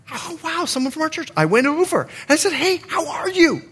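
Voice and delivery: friendly greeting. Retold or imitated. Acting his friendly greeting at Costco.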